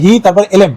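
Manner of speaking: "হি", then "এলএম" as a separate chunk; wrong syllable split. Shown as a demonstration. Teacher testing a bad split of helmet, "হি" apart from "এলএম". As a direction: break it after "হি" and say "এলএম" apart. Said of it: "এটা উচ্চারণই করতে হবে".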